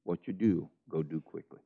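softly retold, tender words to Judas; compassionate quote. Jesus speaking individually to Judas, quietly compassionate. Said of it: "he also spoke very compassionately".

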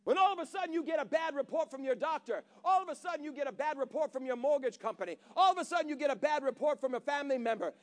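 preaching. Acted. Pastor rousing the congregation, building preaching. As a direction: preach it with rising force.

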